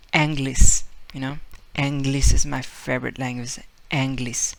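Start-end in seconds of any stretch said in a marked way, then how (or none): 0.1-0.8 "Anglish" said with an open ah at the start, louder; "Anglish" punched, Spanish accent. Retold or imitated. Teacher imitating Spaniard saying English in a Spanish accent. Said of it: "Spaniard would say it". 1.8-4.5 put-on Spanish accent. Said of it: "Spaniard would say it".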